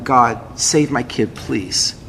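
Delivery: slow, soft, pleading prayer; desperate prayer. Retold or imitated. Father praying alone for his sick child, soft and pleading. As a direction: beg God quietly, slowing down.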